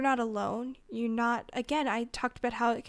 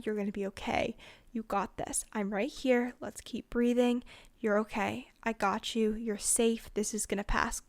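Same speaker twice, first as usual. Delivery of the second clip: calm reassuring voice. Shown as a demonstration. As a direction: talk them down gently, like a friend who's been there. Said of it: "Calm voices".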